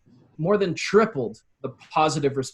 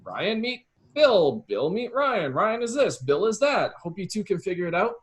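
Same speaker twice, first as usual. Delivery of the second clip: mock intro email; 5 semitones higher than usual. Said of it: "I'd be like".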